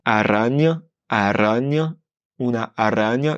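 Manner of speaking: "araña" with a light single tap r; rolled r. Shown as a demonstration. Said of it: "Par exemple".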